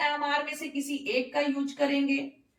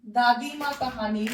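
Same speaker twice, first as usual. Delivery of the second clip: ordinary delivery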